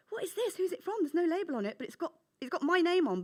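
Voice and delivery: put-on puzzled, excited little girl; a child puzzling over a present; surprised child.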